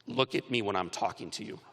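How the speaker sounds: low, restrained order from a dad; stern father. Retold or imitated. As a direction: quietly insist on attention, pitched low. Stern father's words retold in hospital.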